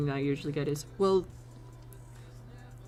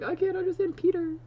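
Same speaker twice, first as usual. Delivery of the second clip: mock complaining viewer. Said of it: "someone's like".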